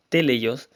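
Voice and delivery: "teleios" accented on the opening TE; stress on first E. Shown as a demonstration. Preacher confirming the Greek pronunciation, first E stressed in "teleios". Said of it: "con acento en la primera E".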